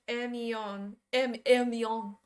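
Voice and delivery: Hermione in an attempted French accent; English speaker trying French pronunciation. Shown as a demonstration. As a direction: drop the H, French "air-mee-ON". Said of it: "French. It sounds kind of like".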